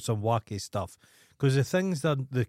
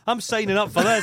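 higher, laughing through the line; 7 semitones higher, 3 dB louder than usual. Retold or imitated. Friend laughs at his own reaction to the ad, laughing. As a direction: say it while cracking up.

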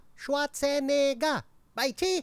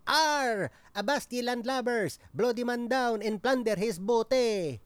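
pirate. Acted.

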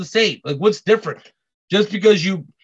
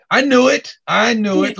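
loud, higher mock-triumphant exclamation; teasing gotcha; 4 semitones higher, 5 dB louder than usual. Ribbing his buddy over a chicken order, mock triumphant. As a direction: crow it like you caught him out.

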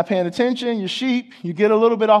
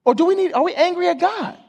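probing question; 11 semitones higher than usual. Acted. Preacher voicing a probing question.

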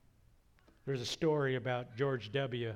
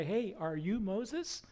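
higher, drawn-out questioning call; curious hail; 4 semitones higher than usual. Retold or imitated. Bush approaches a robed guy in the airport, curious hail. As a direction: hail a stranger with a slow, rising question. Repeated question to a silent man.

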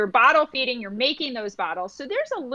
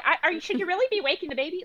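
higher, fast lightly imitated mother-in-law; doubting mother-in-law; 7 semitones higher, much faster than usual. Mother-in-law questioning waking the baby, higher fast mock doubt. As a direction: question her choice in a hint of a fussy in-law voice. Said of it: "the mother-in-law is saying".

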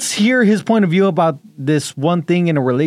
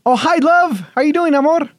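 much higher, gushing answer; wimpy sweet talk; 10 semitones higher than usual. Acted. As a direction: coo like a lovestruck husband. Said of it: "Ew, so wimpy".

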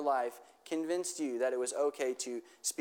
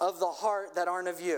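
slow, lifted prayer line for repeating; slow led prayer; 2 semitones higher than usual. Shown as a demonstration. Pastor leading the congregation in a slow call-and-repeat prayer. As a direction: pray it slowly so they can echo. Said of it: "just repeat after me".

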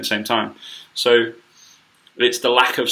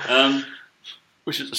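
burping; 3 semitones higher than usual. Real, not acted. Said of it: "I'm burping".

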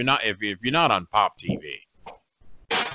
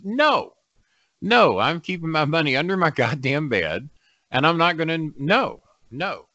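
emphatic refusal; 5 semitones higher than usual. Real, not acted. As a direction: shut it down hard. Refusing to invest.

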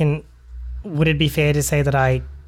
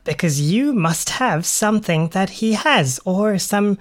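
urgent warning; 4 semitones higher than usual. Acted. Sparrow urgently warns the captain.

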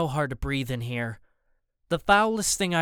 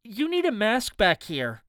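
Anthony; 7 semitones higher than usual. A narrator's reading.

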